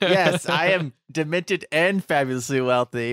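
lightly hammed-up cartoon villain; mustache twirling villain. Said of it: "He's twirling his mustache".

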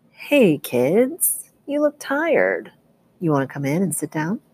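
smooth, inviting doorman voice; friendly doorman. Acted. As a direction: lure them in with charm.

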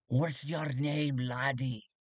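slow, drawn-out lawman voice; gruff sheriff. Acted. Sheriff questioning the bounty hunter, slow and gruff. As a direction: size him up like a sheriff. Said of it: "the sheriff looks at him and goes".

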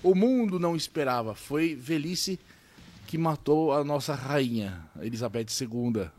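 clickbait video narrator. Pretend. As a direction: build fake suspense. Dramatic reveal of mundane news.

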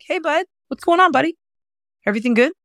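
put-on very high, friendly kid-talk voice; lifted voice for children. Shown as a demonstration. Coach shows how to greet a child, high lifted voice. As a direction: pitch it way up for a child. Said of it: "naturally lift their voice when they're around children".

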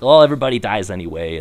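quick, rough attempt at a Boston accent; bad Boston accent. Host imitating fatalistic Bostonians, terrible Boston accent. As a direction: toss it off in a hammy old Boston accent. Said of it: "I apologize for my terrible accent".

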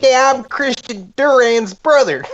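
high, slow cartoon Southern-Hispanic accent; cartoonish accent. Playing a friend's imagined brother, cartoonish accent. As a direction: introduce yourself in a squeaky cartoon accent. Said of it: "A cartoonish version of the accent".

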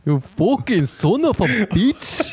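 hammy Italian insult; Italian accent. Pretend. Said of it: "schon fast ein Italiener".

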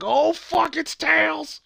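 very high-pitched fan squeal; hammed-up, high excited cry; retold excited outburst. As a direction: re-enact a thrilled gasp of recognition. Retells own thrilled reaction.

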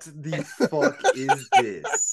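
slow laughing disbelief. Real, not acted. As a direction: laugh it out slowly. Amazed at bizarre claim.

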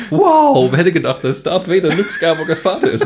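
hammed-up fake astonishment; overdone gasp of surprise; mock surprise. Acting out a surprised moviegoer.

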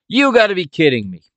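high-pitched, falling exclamation of disbelief; retold disbelief. Father reacting to a score alert, retold disbelief. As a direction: imitate someone startled by bad news.

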